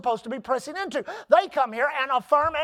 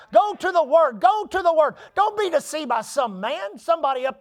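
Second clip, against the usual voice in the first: higher, louder repeated command; urgent preaching; 4 semitones higher, 4 dB louder than usual. Real, not acted. Pastor urges the church to go to the Word, louder and higher. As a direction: drive it home to the congregation.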